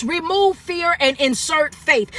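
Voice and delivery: slow, deliberate mantra, each word set apart; slow repeat-after-me line. Shown as a demonstration. Coach repeating the mantra to viewers, slow and deliberate. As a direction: spell it out slowly for the chat to repeat. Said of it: "I want you to say this".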